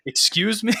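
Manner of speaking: sharp high disbelieving question; shocked excuse me. Retold or imitated. NCOs in the bay react to the refusal, high shocked disbelief.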